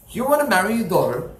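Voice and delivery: rising to a high, loud furious shout; angry yelling. Retold or imitated. Rich man yelling at the collector to get out, furious shout. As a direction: throw him out, yelling. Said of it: "He starts to yell at him".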